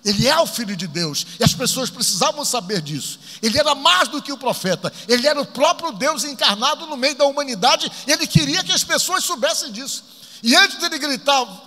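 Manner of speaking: ordinary talk, nothing marked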